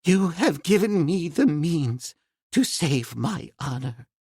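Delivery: put-on slow, moved old professor, a touch unsteady; trembling voice. Professor thanks Tarzan for saving his honor, mildly moved. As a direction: hold back the emotion, understated. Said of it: "with trembling voice".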